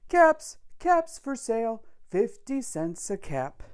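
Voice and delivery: high, loud street cry, easing down at the end; storybook peddler hawking his caps; peddler calling out wares. Acted. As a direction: call out to the whole street to sell caps.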